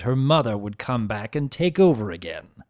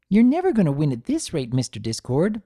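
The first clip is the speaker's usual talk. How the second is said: playful scolding; 4 semitones higher, faster than usual. Acted. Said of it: "she scolded".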